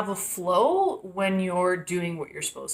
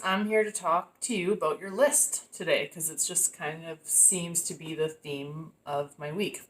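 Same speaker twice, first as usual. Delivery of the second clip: shivering voice from the cold. Real, not acted. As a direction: talk while shivering with cold. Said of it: "Sorry, I'm freezing".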